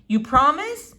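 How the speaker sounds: put-on a girl begging for a promise; hopeful girl. Flora begs her father, high and pleading.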